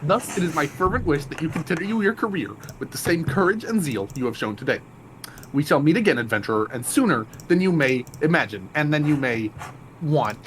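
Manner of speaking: grand, formal quest-giver voice; pompous NPC voice. Acted. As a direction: declaim like a lofty noble.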